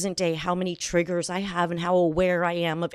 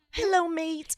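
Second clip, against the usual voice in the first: hint of Australian; 8 semitones higher, slower than usual. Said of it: "I won't do an accent".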